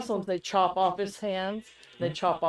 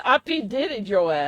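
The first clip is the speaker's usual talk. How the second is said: laughing tease; 3 semitones higher than usual. Real, not acted. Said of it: "Too soon".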